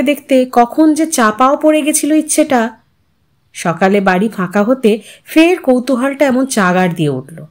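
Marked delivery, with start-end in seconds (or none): none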